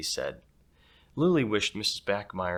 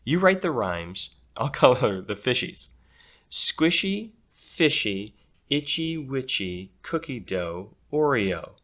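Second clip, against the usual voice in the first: put-on bossy girl; 3 semitones higher, 4 dB louder than usual. Bossy girl Cassidy chatters.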